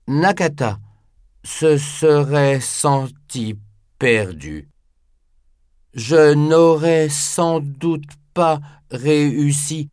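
put-on slow, humble elderly voice; old man voice. Nakata's voice in audiobook.

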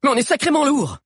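high, strained excuse; apologetic protest. A narrator's reading. Mano excusing Grove to Sabi, apologetic protest. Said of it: "s'excusa Mano".

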